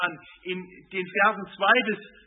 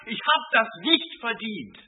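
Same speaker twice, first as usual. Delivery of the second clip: indignant complaint; 4 semitones higher, 4 dB louder than usual. Pretend. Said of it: "Er sagt nicht".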